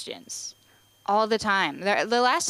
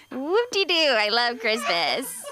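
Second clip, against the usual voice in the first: sarcastic; 3 semitones higher than usual. Acted. Sarcastic about Christmas.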